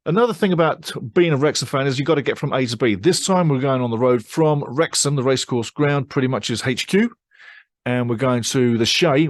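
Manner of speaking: usual speaking voice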